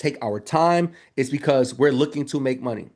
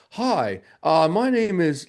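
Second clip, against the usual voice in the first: dull caller; slower than usual. Shown as a demonstration. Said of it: "don't be calling like".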